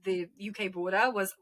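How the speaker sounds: normal talking voice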